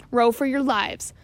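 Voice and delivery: slow, loud scream. Acted. Stash urging his men to row, slow loud scream. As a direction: drive the rowers on, slow. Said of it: "screamed Stash to his men".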